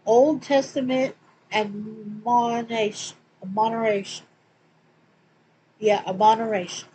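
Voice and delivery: real southern accent, drawing out Admonish-. Real, not acted. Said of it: "my southern accent gets so crazy".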